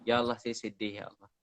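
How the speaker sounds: lightly acted sad plea to God; mock tearful prayer. Shown as a demonstration. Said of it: "Saya ulang-ulang cakap tu".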